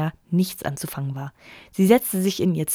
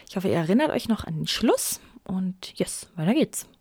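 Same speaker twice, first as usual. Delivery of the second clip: whispered aside to listeners; 5 dB quieter than usual. Real, not acted. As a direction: hush it, just breath. Vorleser flüstert zum Publikum. (geflüstert)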